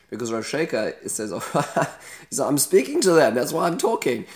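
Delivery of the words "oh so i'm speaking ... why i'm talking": louder, higher sarcastic comeback; mocking retort. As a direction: toss it back with a scornful laugh in the voice. Besieger mocks the delegation.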